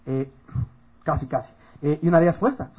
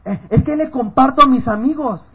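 slow, higher, louder imitation; mock excuse; 6 semitones higher, 5 dB louder than usual. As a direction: drag out a feeble excuse in mockery. Imita excusa del antro. (excusa imitada con burla)

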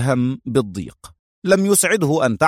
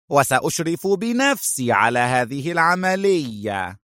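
angry outburst; 6 semitones higher than usual. A narrator's reading. Short boss ordering his men to finish tonight, angrily. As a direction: give orders in a high, cross voice. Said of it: "وصاح غاضبا".

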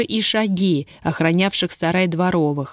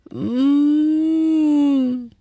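thin high muffled moan through closed lips; faint whimpering howl; 9 semitones higher than usual. A narrator's reading. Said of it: "чуть слышный вой". (тихий тонкий вой)

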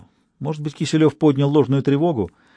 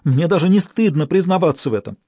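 higher, louder, shaken; frightened confession; 6 semitones higher, 3 dB louder than usual. Acted. Stas admitting his fear to the detective, frightened. Terrified young man confessing.

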